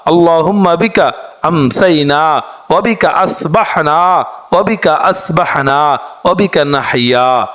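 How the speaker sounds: slow chanted prayer, phrase by phrase; dua recitation. Acted. Teacher reciting the dua for the women, slow chant. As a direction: intone each phrase for the women to follow.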